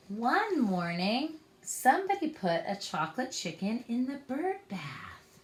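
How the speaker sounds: put-on reading a picture book to children; story narration. A narrator's reading. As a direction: tell it gently to little ones. Reads a picture book aloud.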